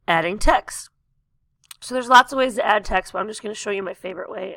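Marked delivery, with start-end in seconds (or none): 1.8-4.6 strained hoarse voice; losing voice. Real, not acted. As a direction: voice giving out. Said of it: "I'm losing my voice".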